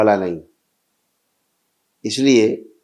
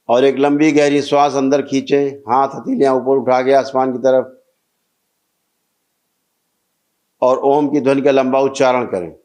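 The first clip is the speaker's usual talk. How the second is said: measured, sustained ritual-leader's voice; steady, carrying instructions to a praying group; guided meditation ritual; 6 semitones lower than usual. Real, not acted. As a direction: lead the gathering through each step, evenly intoned. Leads a group breathing and chanting ritual.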